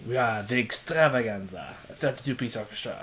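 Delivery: lightly hammed-up promotional pomp; flashy advertiser. Co-host parodying flashy band advertising, mock-grand. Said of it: "why bother with the flashy advertising".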